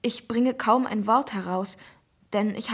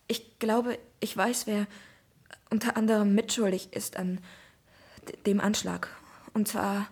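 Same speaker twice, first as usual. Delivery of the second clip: faltering, broken-off words; halting. Acted. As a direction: stumble through it haltingly. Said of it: "füge ich noch stockend hinzu".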